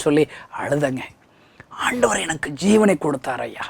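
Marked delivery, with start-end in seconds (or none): 1.8-3.6 whisper. Real, not acted. Tearful testimony of being saved.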